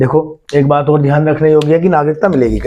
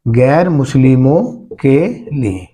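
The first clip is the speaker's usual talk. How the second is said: slow, word-by-word teacher's dictation; drawn-out words, spaced for writing down; 2 semitones lower, slower than usual. Real, not acted. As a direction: spell it out slowly for note-takers. Teacher repeats point for note-taking.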